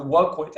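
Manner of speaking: "work with" with the weight on "work"; stress on WORK. Real, not acted. Lecturer telling students to partner with customers, emphatic "work". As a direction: lean on "work" in "work with". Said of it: "And I emphasize the work".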